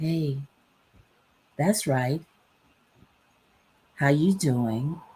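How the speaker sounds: speaking in a woman's voice. Explaining attention-grabbing video openings, speaker is imitating a woman's voice. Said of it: "if you hear a woman's voice and she's like".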